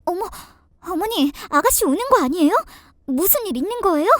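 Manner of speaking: quick, startled question from a daughter-in-law; concerned surprise. Acted. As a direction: ask hurriedly with mild alarm. Daughter-in-law asks about crying. (놀라서 다급히 묻는 며느리)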